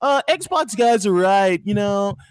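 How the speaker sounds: lightly put-on mocking fanboy; asshole voice. Host mocking an imagined Nintendo fan, asshole voice. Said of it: "that's my asshole voice".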